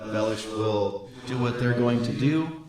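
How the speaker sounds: calm, stately sorceress. Acted. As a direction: speak as a grave sorceress. GM voices Helena.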